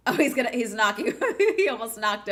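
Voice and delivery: laughing through the words; real amused laugh. Real, not acted. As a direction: chuckle while you say it. Laughs at donut mishap.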